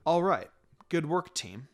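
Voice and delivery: a relaxed sensei praising his students; Kakashi's voice. Acted. Teacher Kakashi addresses his team.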